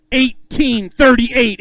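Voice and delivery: "Eighteen thirty-eight" stretched slow for the crowd; slow announcer reveal of "Eighteen thirty-eight"; drawn-out weight call. Acted. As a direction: draw the number out like a reveal.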